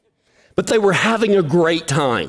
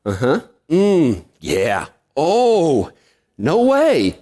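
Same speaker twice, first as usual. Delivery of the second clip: half-listening uh-huhs; nodding along, going through the motions; polite filler replies; 3 semitones lower, much slower than usual. Retold or imitated. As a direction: humour the drunk guys. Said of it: "my part of the conversation was like this".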